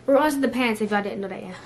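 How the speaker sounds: slightly winded talking; out of breath. Real, not acted. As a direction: talk while a bit out of breath. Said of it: "why am I out of breath?".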